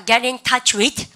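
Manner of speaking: very slow model phrase; slow model read. Shown as a demonstration. Teacher drilling pronunciation slowly. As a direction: say it slowly for repeating. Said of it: "발음 갖다 합시다".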